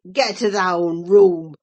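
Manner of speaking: low, furious growl of a voice; inarticulate with passion. A narrator's reading. Earnshaw orders Linton out, voice thick with fury. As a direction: choke the words out in rage. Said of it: "in a voice almost inarticulate with passion".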